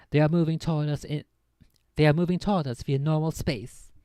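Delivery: a light Scottish lilt on the captain's report; captain over comm, lightly Scottish; Scottish-tinged captain. Acted. Captain reports enemy approach over comm, a touch of Scottish accent. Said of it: "I kinda changed his accent there a little bit to be a bit more Scottish".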